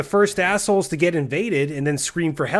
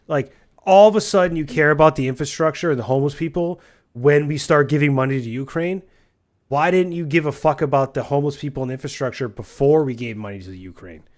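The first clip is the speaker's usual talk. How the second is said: louder, heated ranting at critics; angry rant; 5 dB louder than usual. Real, not acted. Ranting at people who criticise Ukraine aid, heated. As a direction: vent it hard at the critics.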